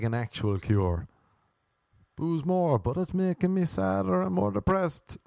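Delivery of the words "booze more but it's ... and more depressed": high-pitched, protesting objection; hammed-up worried objector; mock complaint. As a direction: plead against the advice. Acted complaint about the cure.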